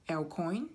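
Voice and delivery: "El Coin" sounded out with a questioning rise; unsure pronunciation. Real, not acted. Card reader stuck on an unfamiliar name, unsure pronunciation. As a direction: try "El Coin" tentatively, ending upward. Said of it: "don't know how to pronounce that".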